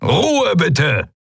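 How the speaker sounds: high, firm shout for order; admiral shouting for order. Acted. Admiral silencing the room.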